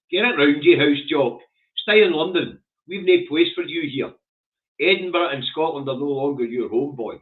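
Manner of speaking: loud, scornful telling-off; angry rant. Real, not acted. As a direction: dismiss him with contempt. Telling off the House Jock.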